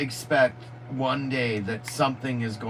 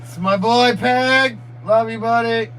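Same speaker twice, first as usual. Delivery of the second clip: happy greeting; 8 semitones higher, 9 dB louder, slower than usual. Real, not acted. Greeting his friend Peg.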